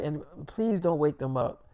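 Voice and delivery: soft hushed voice so the babies stay asleep; hushed plea. Retold or imitated. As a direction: keep it low, don't wake the kids.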